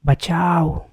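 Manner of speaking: first desperate cry for help; scream for help. A narrator's reading. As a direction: shout for help in panic. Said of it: "और एक चीख आती है".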